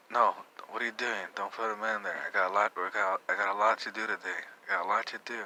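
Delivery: retold angry dad ordering his son about; mean, aggressive. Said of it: "But he said it all mean".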